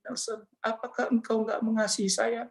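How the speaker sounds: soft, plaintive question; pleading. Retold or imitated. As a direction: imitate a gentle voice quietly begging for love. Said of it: "Suara itu seperti suara melas, suara itu seperti memohon". (memelas, memohon dengan lembut)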